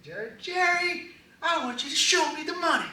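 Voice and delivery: squeaky pleading movie impression; high fast mock voice begging for the money. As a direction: quote it high and fast, hammed-up.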